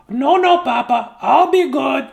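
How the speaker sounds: high, loud chirpy chick; chicken voice. Acted. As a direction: promise eagerly in a squeaky chick voice. Repeats chicken line.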